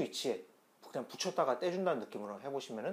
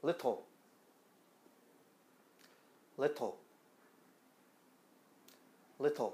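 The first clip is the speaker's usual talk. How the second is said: little in British pronunciation. English teacher demonstrating for learners before the American version, British pronunciation of little. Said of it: "먼저 영국식 첫 번째 발음".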